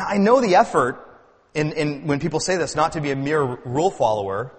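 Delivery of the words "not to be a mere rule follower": a light lean on MERE; stress on MERE. Real, not acted. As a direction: put gentle emphasis on the word MERE. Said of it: "that emphasis on that word".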